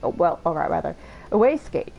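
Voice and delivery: lightly acted desperate underling, pitch leaping up; mildly pathetic begging for mercy; desperate, pathetic pleader. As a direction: plead and make excuses, a touch panicked. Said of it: "look how desperate and pathetic he is".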